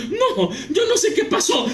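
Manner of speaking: high, flustered acted denial; nervous pastor. Pastor defending himself to shocked members, acted nervous panic. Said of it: "todo nervioso".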